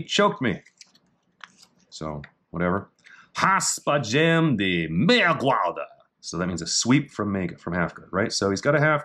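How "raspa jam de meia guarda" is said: Portuguese reading. Shown as a demonstration. Reading Portuguese technique name.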